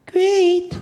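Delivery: "Great." said flatly, no enthusiasm; a bored one-word brush-off; flat unenthused reply. Shown as a demonstration. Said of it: "That's not matching".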